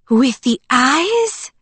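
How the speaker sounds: put-on eager farm girl, relieved and chatty; bubbly young woman. A narrator's reading. Emily voiced by narrator.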